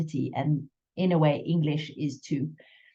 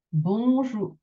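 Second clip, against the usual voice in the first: higher bonjour, leaning on JOUR; accent on final syllable; 5 semitones higher than usual. Shown as a demonstration. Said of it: "place the accent on the final syllable".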